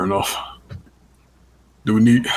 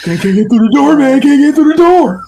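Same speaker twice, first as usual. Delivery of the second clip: high, loud, pleading rich guy shout; pompous rich guy voice; 6 dB louder than usual. Pretend. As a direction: whine like a spoiled rich guy begging. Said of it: "with, like, a pompous rich guy voice".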